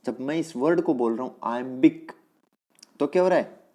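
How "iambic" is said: "iambic" with the weight on "bic"; light "iam", then a stressed "bic" in "iambic"; stress on second syllable. Shown as a demonstration. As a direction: demonstrate the beat of "iambic", leaning on its last syllable. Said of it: "लेकिन बिक".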